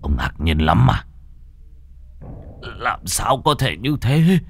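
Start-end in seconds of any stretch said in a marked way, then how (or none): 2.6-4.4 slow, higher-pitched shock; dazed, drawn-out question; stunned disbelief. Acted. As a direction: draw it out in disbelief.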